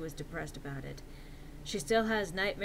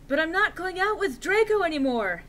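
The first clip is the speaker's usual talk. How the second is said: high loud protesting voice; overacted defensive plea; hammy stage actor; 9 semitones higher, 7 dB louder than usual. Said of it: "said Vampire".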